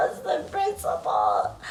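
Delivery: deep repeat of the principle; deep mock voice. Real, not acted. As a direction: drop into a deep voice. Low repeat.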